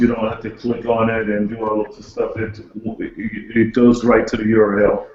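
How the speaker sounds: muffled. Real, not acted. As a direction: voice muffled as if behind a hand. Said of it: "Sorry, it's a bit muffled".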